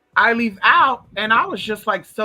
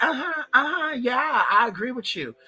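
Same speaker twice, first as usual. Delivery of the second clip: a higher, breezy uh-huh of polite agreement; lightly voiced agreeing lady; 5 semitones higher than usual. A woman humoring a ranting customer, lightly mimicked. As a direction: nod along like a bored clerk.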